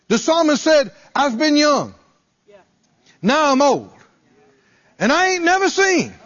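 high, loud, rising sermon fervor; preaching at full force. Acted. Preacher exhorts believers that they never need to beg, preaching at full force. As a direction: lift the congregation with fervent preaching.

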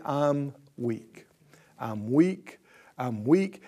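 low, soft, defeated whimper; moping weakness. Retold or imitated. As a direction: sound beaten down and pitiful. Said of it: "The weak will be tempted to say".

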